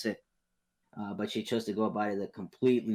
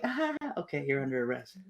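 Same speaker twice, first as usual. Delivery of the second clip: mock police voice; 4 semitones higher than usual. Police voiced arresting her.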